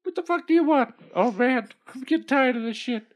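irritated goldfish. Acted. Annoyed goldfish.

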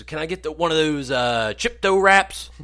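put-on high, loud and slow old-man mispronouncing; hammed-up confused elderly dad; dad mangling Chipotle like an old man. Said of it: "You sound like you're, like, ninety years old".

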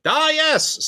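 high sneering imp voice; giggly sneering imp. Acted. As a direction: squeak it like a sly imp. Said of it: "says the imp".

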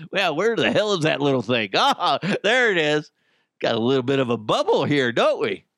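a hint of a British doctor; half-botched British accent. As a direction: slip lightly into a shaky attempt at British. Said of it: "I kinda did a British accent".

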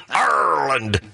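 "Ireland" squashed to "Arr-land"; mock two syllables. Host mocking panelist's new way to talk, Arr-land. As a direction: run "Ireland" together with a long arr. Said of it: "don't invent a new way to talk".

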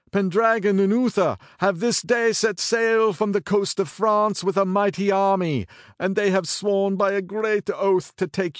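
high, loud breathless messenger; urgent panting report. Acted. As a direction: gasp out the news urgently. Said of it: "rode a breathless messenger".

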